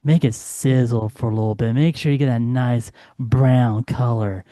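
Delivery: low sultry chili-cooking pitch; sexy voice. Retold or imitated. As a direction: seduce them with the recipe. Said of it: "your best sexy voice, your best, you know, naughty voice".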